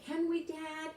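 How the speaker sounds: put-on boy begging his dad, eager; eager child. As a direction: ask Dad with hopeful excitement. Boy asks father excitedly.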